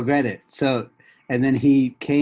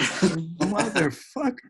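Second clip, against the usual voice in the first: winded gasping; 5 semitones higher, much slower than usual. Retold or imitated. Guests gasping after stairs.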